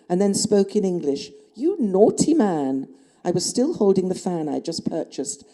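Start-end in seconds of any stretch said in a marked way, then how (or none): 1.5-2.9 slow, coquettish teasing scold; flirtatious. A narrator's reading. Woman teasing her pursuer with a fan tap, flirtatious. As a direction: draw it out with playful, hammed-up reproach. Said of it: "my flirtatious tone and manner".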